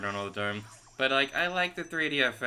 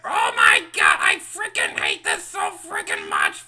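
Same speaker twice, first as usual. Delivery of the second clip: loud, lower raging yell; furious shout; 6 semitones lower, 12 dB louder than usual. Real, not acted. Gamer ranting loudly at the game. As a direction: rant it at full volume.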